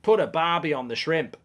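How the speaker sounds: half-hearted attempt at an Australian accent; bad Australian accent. Shown as a demonstration. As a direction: try Australian and miss. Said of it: "I can't do Australian".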